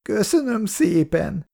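a touch of bitterness, voice rising high on Köszönöm; bitter thanks. Acted. (keserű, magas hangú köszönöm)

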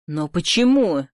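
usual speaking voice

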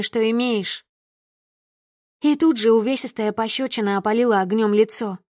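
ordinary delivery, nothing marked

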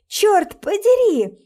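panicked curse. Acted. Locked door, panicked escape.

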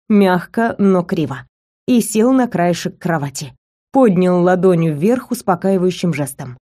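ordinary talk, nothing marked

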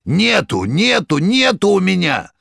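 high, loud desperate scream; terrified shout. A narrator's reading. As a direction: scream it in terror. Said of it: "страшным голосом прокричал".

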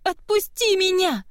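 high, strained cry through sobs; sobbing plea. Acted. Girl sobbing to the guard holding her, high strained plea. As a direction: force the words out between sobs. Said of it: "еле выдавила Кива между всхлипами".

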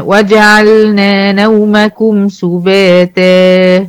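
slow recitation holding the final alif; teacher recites the verse to show the madd; Quran recitation. Shown as a demonstration. تلاوة بطيئة مع مد الألف. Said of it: "كل دي أمثلة على مد العوض".

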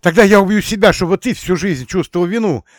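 high, loud shrieking threat; hysterical threat. Acted. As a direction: scream it to make him feel guilty. Emilia threatens suicide hysterically.

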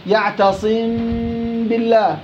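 يعتصم with a nasal hum on م before ب; slow Quran demo; hidden meem. Shown as a demonstration. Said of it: "عندي غنة وعندي باء".

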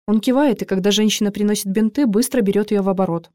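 plain reading voice

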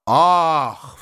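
high-pitched "ah!"; a gasped-out old lady's cry; startled exclamation. A narrator's reading. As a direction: cry out in shock. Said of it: "вскрикнула генеральша".

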